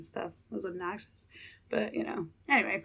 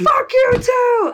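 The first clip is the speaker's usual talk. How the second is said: mock berserk blow-up, very high, loud, shrill, furious; 12 dB louder than usual. Retelling cursing back at someone's friend, retelling a furious outburst. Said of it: "I'm berserk".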